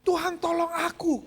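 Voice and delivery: high, loud, slow plea; pleading cry. Retold or imitated. Man hanging from the branch begs God, loud slow pleading. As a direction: beg God to save you.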